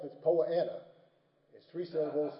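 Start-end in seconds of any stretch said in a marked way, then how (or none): 0.2-0.8 Southern pronunciation. Shown as a demonstration. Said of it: "In the South".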